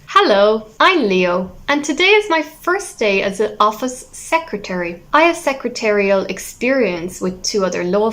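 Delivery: key words like "excited" punched in a musical, confident introduction; measured demo introduction with lifted stresses on "Hello" and "Until then"; expressive stressed reading. Shown as a demonstration. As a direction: introduce yourself proudly, leaning on words like "first" and "please". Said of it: "the way I stress the words".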